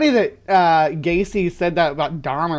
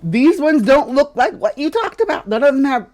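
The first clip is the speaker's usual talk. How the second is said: higher, louder sinister clown voice; giggly sinister sing-song; 5 semitones higher, 5 dB louder than usual. Acted. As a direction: taunt them like a creepy clown. Argues in character as clown.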